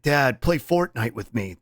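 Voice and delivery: slow, lightly voiced anime son; slightly put-on pleading son; adult Gohan. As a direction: draw out the plea to dad. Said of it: "he sounds like".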